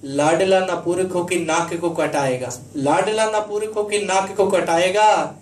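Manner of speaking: declaimed patriotic verse; rousing stage recitation as a brave soldier; soldier son's reply. Acted. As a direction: vow to a mother in driving, rhythmic lines. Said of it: "वो बेटा वीर सैनिक अपनी माँ को जो जवाब देता है".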